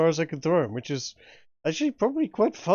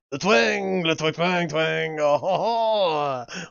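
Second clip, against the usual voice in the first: put-on French accent; 2 semitones lower, slower than usual. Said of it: "have him say "Le Twang" in a French accent".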